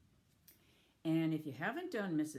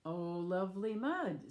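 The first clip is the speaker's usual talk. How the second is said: delighted; 3 semitones higher, 4 dB louder than usual. Acted. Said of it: "said the pig".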